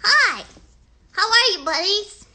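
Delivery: put-on kids' show host hello; cheery greeting. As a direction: greet little viewers with a big bright hi. Greeting kid viewers brightly.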